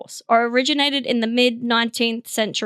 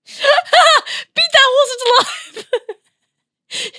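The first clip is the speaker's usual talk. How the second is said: much higher, slow, laughing through it; laughing mock command; 13 semitones higher, 7 dB louder, slower than usual. Imagining the horse back up, laughing higher and slow. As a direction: deliver it as a cruel, giggly order. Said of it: "sounds like you're trying to kill the horse".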